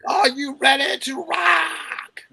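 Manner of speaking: hype announcer. Acted. Player hams a rock taunt.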